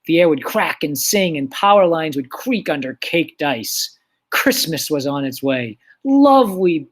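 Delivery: measured, dramatic story reading; story narration. Acted. Teacher reading Christmas story aloud to class, dramatic narration. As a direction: savour the excerpt, swelling on the glorious words, then slowing.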